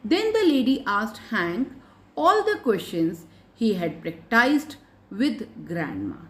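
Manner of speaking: put-on very slow, measured reading for young learners; story read-aloud. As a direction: read it out phrase by phrase, slowly. Reads story aloud to pupils. (बच्चों के लिए धीरे-धीरे कहानी पढ़ना)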